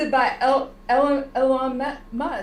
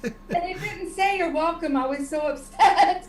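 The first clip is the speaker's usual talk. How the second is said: amused complaint, laughter in the voice; laughing mock upset; 3 semitones higher than usual. Real, not acted. Co-host teasing about Siri not saying you're welcome, laughing. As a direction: play at being hurt while giggling.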